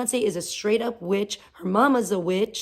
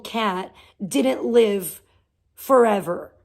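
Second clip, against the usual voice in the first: mock sarcastic reply; 3 semitones higher than usual. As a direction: play dumb, then land forever hard. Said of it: "And I'm like".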